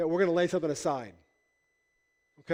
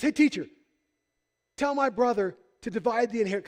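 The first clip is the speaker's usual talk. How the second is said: heckling yell; 5 semitones higher than usual. Retold or imitated. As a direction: shout a demand up to the teacher. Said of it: "he yells at Jesus".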